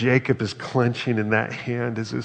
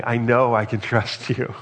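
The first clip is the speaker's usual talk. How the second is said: laughing; 4 dB louder than usual. Pretend. Believer repeats it, laughing.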